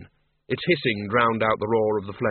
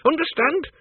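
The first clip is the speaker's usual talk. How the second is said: angry demand. Acted. Miss Flitworth finishes rebuking Bill, high and angry. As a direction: demand an answer.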